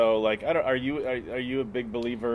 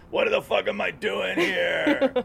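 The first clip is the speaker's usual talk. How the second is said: 1 mock bewildered tripper; 9 semitones higher, much slower than usual. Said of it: "and you go".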